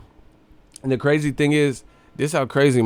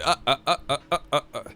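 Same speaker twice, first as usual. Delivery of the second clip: mock laugh; 3 semitones higher, 4 dB quieter, much faster than usual. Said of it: "Soda Popinski laughing".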